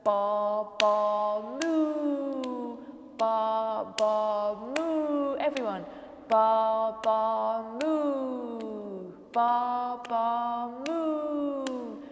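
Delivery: loud rhythmic ba ba moo; animal noises. Shown as a demonstration. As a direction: chant the animal sounds to the clap. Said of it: "keep clapping and go".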